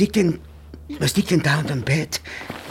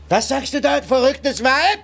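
indignant outburst; 6 semitones higher than usual. Acted. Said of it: "schrei mich nicht an".

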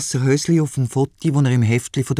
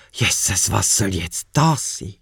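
shocked mother; 6 semitones lower than usual. Acted. Shocked mother sees drawing.

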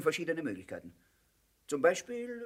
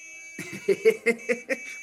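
rising amused villain laugh; mocking laugh; 5 semitones higher than usual. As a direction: laugh at their arrival.

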